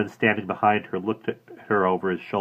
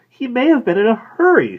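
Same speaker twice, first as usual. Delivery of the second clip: helpful; 11 dB louder than usual. A narrator's reading. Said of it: "she added helpfully".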